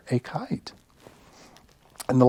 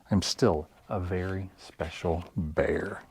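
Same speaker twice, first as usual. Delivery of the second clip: softer, slower, hushed; soft whisper; 2 semitones lower, 7 dB quieter, slower than usual. A narrator's reading. The bear whispers to himself beside the sleeping baby crows. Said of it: "he whispers".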